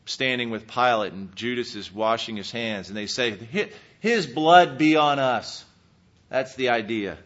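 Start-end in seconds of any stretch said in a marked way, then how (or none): 3.5-5.6 loud, slow solemn declaration; quoted crowd vow. Retold or imitated. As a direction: proclaim the crowd's oath, drawn out and loud. Voices crowd taking curse on themselves.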